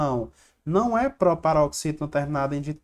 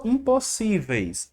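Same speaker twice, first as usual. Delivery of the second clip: slow, higher impossíveis with SÍ stressed; sílaba tônica destacada; 4 semitones higher, slower than usual. Shown as a demonstration. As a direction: lean on the SÍ of impossíveis. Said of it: "Tô destacando aqui a sílaba mais forte". (destaque o SÍ de impossíveis, devagar)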